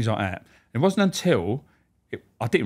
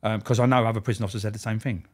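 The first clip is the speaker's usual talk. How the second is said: ordinary talk, nothing marked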